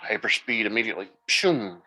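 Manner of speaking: talking with the hiccups; words broken by a hiccup. Real, not acted. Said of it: "Oh, I got the hiccups".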